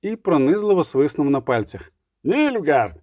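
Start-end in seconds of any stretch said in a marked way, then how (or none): 2.2-3.0 restrained warning yell, drawn out; lung-bursting cry, understated. A narrator's reading. Witcher warns the approaching patrol, mild yell. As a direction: call out a warning at moderate volume. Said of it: "крикнув щосили у легенях".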